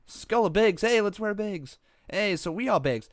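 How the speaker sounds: high, loud mock English accent; a botched try at an English accent; attempted English accent. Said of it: "That's n-, not an English accent".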